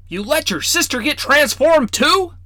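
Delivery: put-on high, scolding old man voice; teasing grandfatherly reproach; stern grandfather. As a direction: chide the crow-boy like a fussy old grandpa. Grandfather exasperated.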